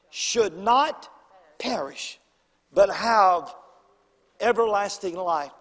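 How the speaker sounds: loud, lingering scripture read; preacher reading John three sixteen aloud. Shown as a demonstration. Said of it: "and this is what it says".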